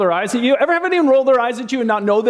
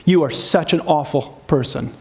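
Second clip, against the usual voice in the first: fast contempt; 4 semitones lower than usual. Shown as a demonstration. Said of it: "contempt takes us a step further and says".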